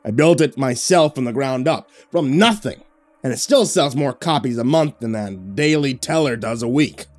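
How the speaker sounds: a hint of a proud, threatening boss; domineering boss. A boss warns his reporter he is on thin ice, domineering.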